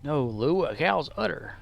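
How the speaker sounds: insistent straight man correcting his partner; comedy-duo correction, falling at the end; Abbott and Costello. Acted. Straight man correcting Lou about the udder, insistent double-act delivery. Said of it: "Like Abbott and Costello".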